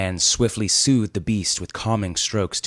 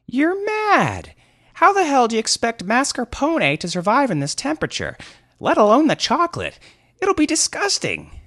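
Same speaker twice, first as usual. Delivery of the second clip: very high, loud furious ranting; unfettered anger; 6 dB louder than usual. Acted. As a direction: rage at the absurdity of it. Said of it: "unfettered anger in his voice".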